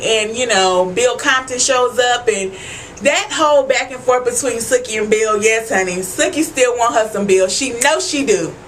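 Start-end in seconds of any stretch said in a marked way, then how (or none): none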